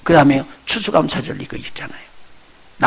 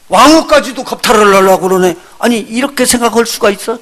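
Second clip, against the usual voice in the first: outraged king; 5 semitones higher, 5 dB louder than usual. Retold or imitated. King sees Haman embracing queen.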